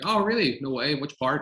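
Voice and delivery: bright eager disbelief at the actor's news; excited surprise. Retold or imitated. Director retelling his thrilled reply to the actor, excited. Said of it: "And I was like".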